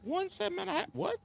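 high strained falsetto voice; cracking high pretend voice. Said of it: "my voice is cracking up".

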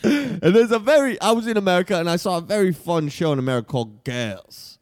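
broad mock Aussie pitchman; Australian accent. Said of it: "I'm from Australia".

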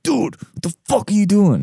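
high-pitched exasperated outburst; retold scolding. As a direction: scold the cat in mock disbelief. Retold scolding of his cat.

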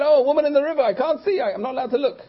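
high, hammed-up flustered refusal; mock pious alarm. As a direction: play the scandalized pious fool, loudly. Pious fool refuses to look.

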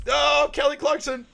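high, drawn-out comic yell; loud, slow mock shriek; imitated pain scream. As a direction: howl the name as a swear word. Acting out favourite waxing scream.

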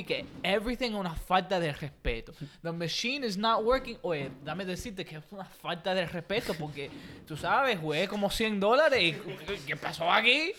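lightly voiced old Cuban complainer; a hint of an aggrieved Cuban monologuer; annoying old Cuban. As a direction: gripe in Spanglish like a Cuban grandpa. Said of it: "stereotypical fucking old Cuban thing to do".

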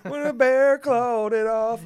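high, slow, laughing. Pretend. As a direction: laugh it out slowly. Laughing joke continues.

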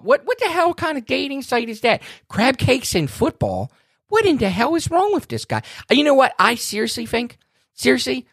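really worked up, ranting about John's email; fired up. Real, not acted. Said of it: "you're a little fired up".

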